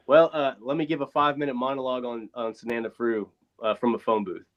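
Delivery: thin tinny sound, no bass; like talking from a phone booth. Real, not acted. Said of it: "you sound like you're in a phone booth".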